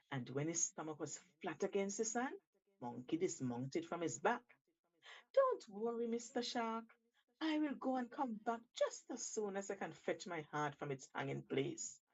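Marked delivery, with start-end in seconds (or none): 5.3-12.0 reassuring. Acted. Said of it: "assured Monkey".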